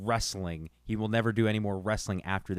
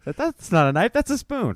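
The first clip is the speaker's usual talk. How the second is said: put-on louder, much higher Crocodile Dundee Aussie accent; mock Australian accent; 11 semitones higher, 6 dB louder than usual. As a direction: ham up the Aussie bushman line. Quoting Crocodile Dundee, mocking.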